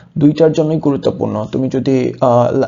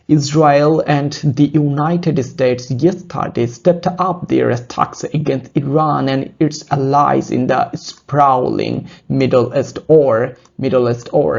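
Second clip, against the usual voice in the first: slow article read; much slower than usual. Shown as a demonstration. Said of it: "teacher reading article aloud".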